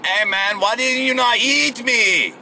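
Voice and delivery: high, drawn-out mock Hispanic accent; pretend Hispanic accent. Comic retrying the prisoner's question to the crocodile, pretend Hispanic accent. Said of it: "pretend Hispanic accent thing".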